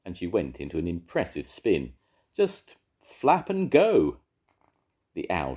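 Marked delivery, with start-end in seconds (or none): 2.3-4.2 high, loud and slow owl advice; hooting owl. A narrator's reading. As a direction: draw it out like a boastful owl. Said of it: "she hooted".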